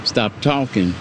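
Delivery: winded, halting speech; out of breath. Real, not acted. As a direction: pause mid-phrase to catch your breath. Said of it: "You gotta catch your breath".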